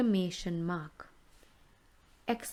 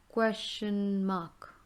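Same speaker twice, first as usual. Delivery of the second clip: repeat slowly; much slower than usual. Shown as a demonstration. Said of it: "teacher repeats term slowly".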